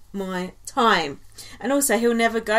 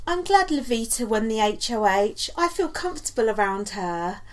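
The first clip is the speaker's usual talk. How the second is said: Nikki impression. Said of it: "Just working on my Nikki impression".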